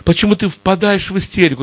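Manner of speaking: gentle, soothing voice of a loving father; tender fatherly voice. Acted. God answers his frightened son, tender and soothing. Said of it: "такой ласковый голос".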